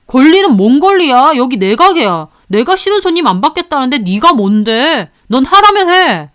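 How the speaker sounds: rising into an angry yell at the worker; boss yelling. Retold or imitated. Restaurant boss yelling at his part-timer, angry. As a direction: bark orders down at the part-timer. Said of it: "사장이 큰 소리를 내자".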